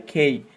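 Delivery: "খেই" with a puff after the k; aspirated K. Shown as a demonstration. Teacher answering how K should be said, aspirated pronunciation. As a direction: say "খেই" as "khey", gliding vowel. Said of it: "কে না কিন্তু, এটার উচ্চারণ কি হবে".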